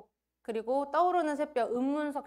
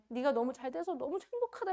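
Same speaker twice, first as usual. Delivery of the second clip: tearful coach; 2 semitones higher, 4 dB quieter than usual. Retold or imitated. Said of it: "이러면서 그 관장님 막 울어요".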